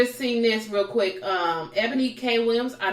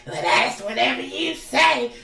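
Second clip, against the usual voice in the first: imitating Monique; 5 semitones higher than usual. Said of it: "trying to sound like, Monique has, like, a little raspy voice".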